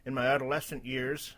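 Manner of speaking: a faltering attempt at a droopy dog. Reading a post before giving up, mild droopy dog voice. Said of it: "okay, forget that voice, it's too hard".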